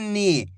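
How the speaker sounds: slow नी with a long ई; stretched vowel. Shown as a demonstration. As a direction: stretch नी clearly as a teaching demo. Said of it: "खींच के करेंगे". (नी को खींचकर धीरे)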